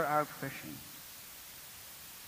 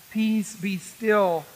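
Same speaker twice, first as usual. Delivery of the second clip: calm command; much slower than usual. Retold or imitated. Christ calming anxious souls.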